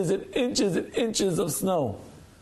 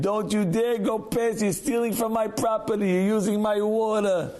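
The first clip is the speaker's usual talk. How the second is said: indignant scolding, a little higher; territorial complaint; 3 semitones higher than usual. Acted. Homeowner warns a neighbor off his property and water, indignant.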